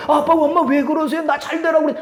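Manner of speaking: a grown son puzzled by his kneeling parents; son's voice. Retold or imitated. Son voiced in retold story.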